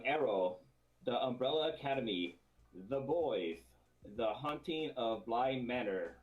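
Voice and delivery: serious movie trailer announcer; lightly voiced popcorn movie announcer. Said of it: "my movie popcorn guy voice".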